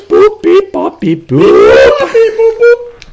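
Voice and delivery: high robotic beeps. Pretend. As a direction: beep like a computer. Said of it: "the hockey computer".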